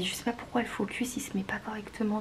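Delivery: soft unvoiced whisper. Real, not acted. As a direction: whisper it under your breath. Whispering while fixing camera focus.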